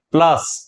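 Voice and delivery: "प्लस" with the weight on ल; stress on ल. Shown as a demonstration. Teacher explaining which letter carries emphasis, stress on ल in "प्लस". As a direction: lean on ल in "प्लस". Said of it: "यह बलाघात को वहन कर रहा है".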